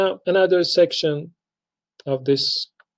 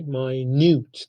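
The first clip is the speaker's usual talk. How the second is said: minute said my-NYOOT, drawn out slowly; second-syllable stress. Shown as a demonstration. Teacher repeating the adjective, minute as slow my-NYOOT. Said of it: "The stress is on second syllable".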